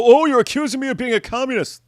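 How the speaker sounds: mock indignation. Mocking Andrew's indignant reply.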